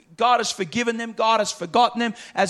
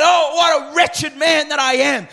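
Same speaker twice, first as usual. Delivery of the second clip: Paul's anguished cry; 5 semitones higher than usual. Retold or imitated. Paul crying out about flesh.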